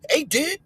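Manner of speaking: "did" said with a short i, like dude squeezed flat; white boy "did". Retold or imitated. Mimicking white friends greeting with "did". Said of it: "I know how to say did".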